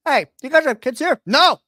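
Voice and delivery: hammed-up bureaucrat quizzing parents; mock census taker. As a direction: play a pushy clerk checking records. Acting out Jedi and parent scene.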